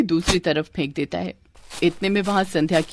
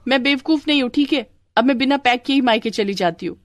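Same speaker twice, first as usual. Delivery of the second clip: higher-pitched, mildly cross; huffy retort; 6 semitones higher than usual. Acted. Wife quarrelling with husband about leaving, huffy. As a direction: answer back in a huff.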